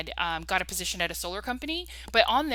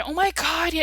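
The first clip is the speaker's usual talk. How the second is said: put-on higher, gushing Valley Girl; a quick, vapid Valley Girl "Oh my God"; 9 semitones higher, 4 dB louder than usual. Imitating the coworker's Valley Girl gush. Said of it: "very vapid".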